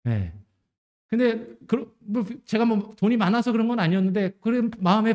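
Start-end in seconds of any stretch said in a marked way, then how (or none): none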